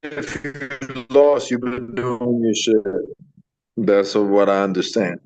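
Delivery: choppy robotic phone audio; garbled, robotic call line; robotic connection. Real, not acted. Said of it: "you sound robotic".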